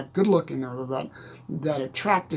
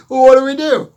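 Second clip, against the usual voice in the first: anxious question; 9 semitones higher, 14 dB louder than usual. Retold or imitated. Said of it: "I go".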